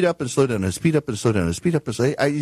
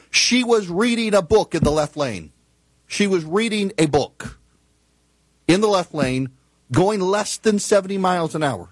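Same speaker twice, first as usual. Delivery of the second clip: higher-pitched disbelief, phrase by phrase; incredulous outrage; 5 semitones higher than usual. Real, not acted. Host on a woman reading while driving, incredulous outrage. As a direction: let each detail land as an outrage.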